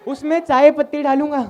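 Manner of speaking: mimicking the help. Comedian echoing the house help's tea-leaf question, mild and innocent. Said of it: "mimicking the help's line".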